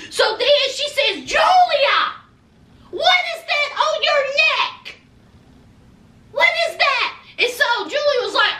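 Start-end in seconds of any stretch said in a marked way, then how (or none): 1.2-7.1 mother-in-law aghast at the neck; shocked mother. Retold or imitated. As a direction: caught off guard by what she sees. Mother spots marks on neck.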